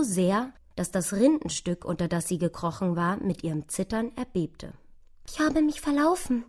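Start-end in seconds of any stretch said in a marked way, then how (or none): 5.3-6.4 hohes, klagendes Mäusestimmchen; klagende kleine Maus. A narrator's reading. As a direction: lament in a small high mouse voice. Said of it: "klagte sie". (klagend, mit hoher Mäusestimme)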